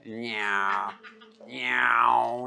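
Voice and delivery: long, droning "nyow" of a plane; imitated airplane drone. Teacher imitating students' answers as an airplane drone. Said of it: "You sound like an airplane".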